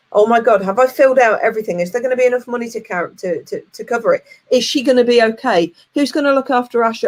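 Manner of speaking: mock panicked worry. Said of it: "what's usually going through my head".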